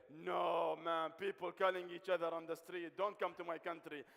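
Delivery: mock loud warning, half-joking; mock warning yell. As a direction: belt it out like a mock-horrified local. Imagined local warning off visitors.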